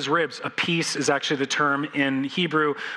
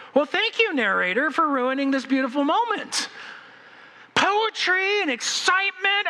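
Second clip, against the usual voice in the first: much higher, sarcastic thanks; mock indignation; 10 semitones higher than usual. Preacher mock-thanking the narrator for ruining the moment, sarcastic. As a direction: scold the narrator in jest. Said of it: "mock complaint to narrator".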